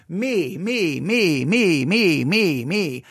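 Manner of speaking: sing-song mock chant of me, rising and falling. Mocking his own self-centered past in a singsong. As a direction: taunt himself in a swinging singsong.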